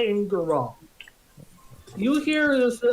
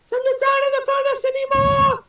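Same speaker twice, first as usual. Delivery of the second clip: fiery revolutionary speech; 5 dB louder than usual. Acted. Worker elves rise up.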